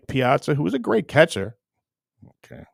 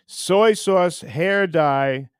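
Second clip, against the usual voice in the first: loud, higher mocking taunt; 4 semitones higher, 5 dB louder, much slower than usual. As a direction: jeer the nicknames at him. Taunting nicknames, louder.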